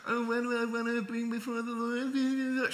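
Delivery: mock the asker with disgust; mocking disdain. Shown as a demonstration. Preacher contrasting the plain reading with Micah's sneer. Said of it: "more like this".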